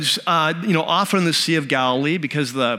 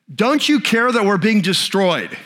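higher-pitched, indignant reproach; acted-out exasperated protest; mad; 4 semitones higher, 3 dB louder than usual. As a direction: imitate desperate followers angrily confronting their teacher. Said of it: "you can hear how mad they are".

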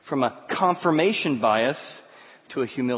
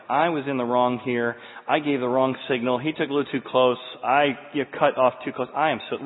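calm, softening humble plea; sincere apology; 3 semitones lower than usual. Retold or imitated. Pastor apologizing to the angry fisherman, calm and humble. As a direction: gently own the mistake.

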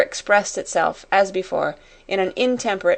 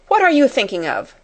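higher, louder angry question; fierce demand; 6 semitones higher, 5 dB louder than usual. A narrator's reading. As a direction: demand an answer forcefully. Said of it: "she demanded".

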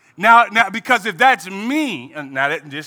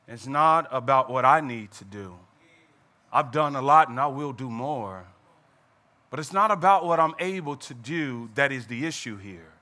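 lower, softer, patient God; quiet voice of God; 10 semitones lower, 9 dB quieter than usual. Acted. God quietly correcting Moses, low and soft. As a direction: explain it gently, low and soft.

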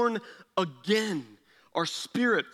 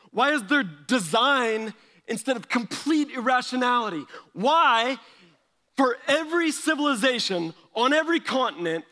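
raised, urgent wondering questions; 3 semitones higher than usual. Retold or imitated. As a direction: ask it in amazement. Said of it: "you're like".

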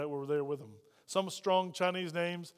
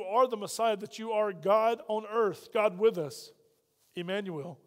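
closing prayer. Acted. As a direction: pray sincerely for the congregation. Leads closing prayer over music.

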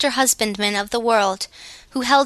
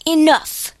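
sudden higher-pitched exclamation; abrupt cry; 6 semitones higher, 3 dB louder than usual. A narrator's reading. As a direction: cut in abruptly with a raised pitch. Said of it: "cried the Gnome King abruptly".

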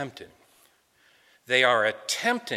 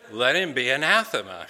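firm, louder restatement of the curse; emphatic, raised-voice repeat; 6 dB louder than usual. Shown as a demonstration. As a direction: say it again so the back row hears. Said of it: "I'll say it again, in case you didn't hear me".

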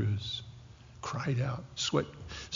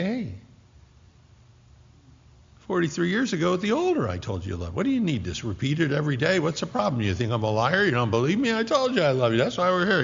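mock exasperated husband; 4 semitones higher, faster than usual. Husband's exasperated mock rant to wife.

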